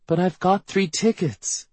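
put-on high, drawn-out little-girl protest; high-pitched child's complaint. A narrator's reading. Child objects to mom.

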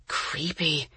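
softly breathed. A narrator's reading. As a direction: breathe the word out quietly. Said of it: "breathed Jessie".

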